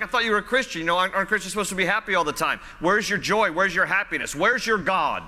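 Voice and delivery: quick, needling imitation of doubters; mock taunting. People come up to a discouraged believer, mock taunting. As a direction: rattle off accusing questions, mildly mocking. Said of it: "They're taunting him".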